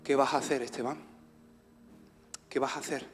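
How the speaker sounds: low, soft, helpless question; hushed self-questioning. Retold or imitated. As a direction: ask yourself under your breath. Retold question to himself in shock. (pregunta a sí mismo, baja y suave)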